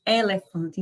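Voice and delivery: "elefante" with open e's; Northeastern Brazilian elefante. Shown as a demonstration. Teacher imitating the Northeastern Brazilian accent. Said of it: "é comum nós falarmos E".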